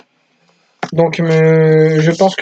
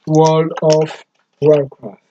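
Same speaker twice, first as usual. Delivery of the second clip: slow, drawn-out English-accented "World of Warcraft"; proud mock English accent on "World of Warcraft"; much slower than usual. Shown as a demonstration. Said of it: "Mon accent anglais est vraiment superbe".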